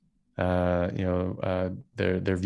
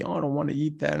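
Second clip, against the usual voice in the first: mock picky kid; 8 semitones higher than usual. Mocking picky eater kid.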